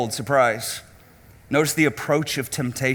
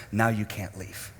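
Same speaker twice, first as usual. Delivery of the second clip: low, softer, menacing verdict; ominous voice of sin; 7 semitones lower, 8 dB quieter than usual. Acted. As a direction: close the trap, low and cold. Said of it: "closes the door behind you and says".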